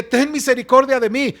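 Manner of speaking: earnest appeal, a touch of a shout; crying out. Shown as a demonstration. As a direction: call out to the Lord with urgency. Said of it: "grita, habla, ve a tu Señor y dile".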